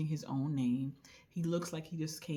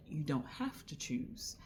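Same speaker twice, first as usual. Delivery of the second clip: whisper. Retold or imitated. The two men telling her, in a whisper. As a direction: whisper it gently, like a secret. They're like.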